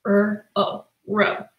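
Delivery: soft, segmented sounding out; R-O said sound by sound, then blended ro; kids' answer. Shown as a demonstration. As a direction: tap out each sound quietly like a child. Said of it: "they tell me ro".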